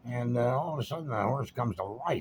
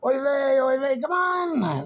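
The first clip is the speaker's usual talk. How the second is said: high, loud frantic shouting; yelling; 7 dB louder, much slower than usual. Retold or imitated. Bettors at the rail screaming for their horse. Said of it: "everybody's going nuts".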